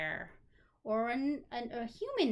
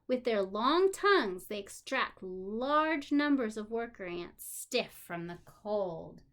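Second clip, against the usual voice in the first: put-on reading to children; 4 dB louder than usual. A narrator's reading. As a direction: clear storybook reading. Reading a children's book aloud.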